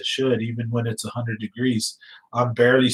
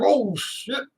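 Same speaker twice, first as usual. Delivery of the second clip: high, drawn-out mock dismay; retold shock; 12 semitones higher, 3 dB quieter than usual. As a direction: re-enact the horrified reaction. Retells shock at the injury.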